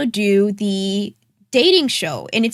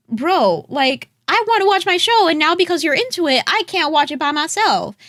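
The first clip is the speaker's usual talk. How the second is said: exasperated; 7 semitones higher than usual. Retold or imitated. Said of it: "it's just like".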